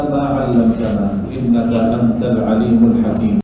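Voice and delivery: fast Arabic opening prayer; prayer recitation. Acted. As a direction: rattle off the blessing quickly. (doa pembuka cepat berbahasa Arab)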